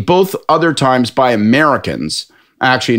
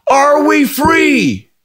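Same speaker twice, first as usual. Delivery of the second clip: high, slow, drawn-out mock question; conspiratorial drunk; much slower than usual. Drunk pub guy quizzes Scott, slow mock conspiracy voice. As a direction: lean in like a drunk with a secret theory.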